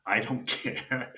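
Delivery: drawn out at half pace, laughing; dazed retold indifference. Hurt player answering teammate about the score, slow dazed indifference. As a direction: stretch it out slowly with a laugh. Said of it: "I didn't say it in that".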